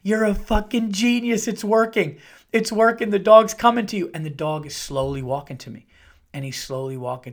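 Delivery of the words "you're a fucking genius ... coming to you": rising giddy whisper-shout of triumph, higher and louder; excited self-praise. Retold or imitated. Man cheering himself on as the dog approaches, excited. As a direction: gloat at your own genius, building. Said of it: "I'm like".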